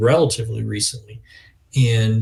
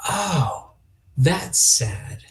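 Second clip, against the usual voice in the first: put-on small child realizing; 4 semitones higher, 3 dB quieter, much slower than usual. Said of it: "let him at five or six years old say".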